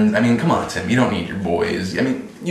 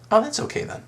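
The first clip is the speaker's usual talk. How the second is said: much higher, mock relieved gossip voice; 3 dB quieter, faster than usual. Mocking viewers who excuse opinions, high squeaky relieved voice.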